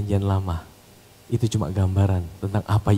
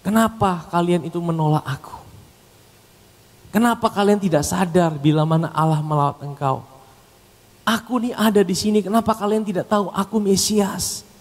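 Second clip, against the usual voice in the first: high, pained appeal as Jesus; raised voice of mock lament; pleading, weeping Jesus; 8 semitones higher than usual. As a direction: plead with those who reject you, mildly acted grief. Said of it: "Yesus nangis".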